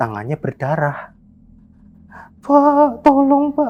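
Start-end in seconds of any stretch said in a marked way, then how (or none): 2.4-3.7 mock, very high, sad, weepy, tearful crying. Retelling a crying helper's plea with a bleeding hand: imitating sad crying plea. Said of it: "Nangisnya tuh nangis yang sedih".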